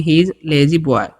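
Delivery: very slow, word by word; spelled-out dictation pace; slow model reading. Shown as a demonstration. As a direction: say each word slowly for the class to copy. Teacher models English sentence.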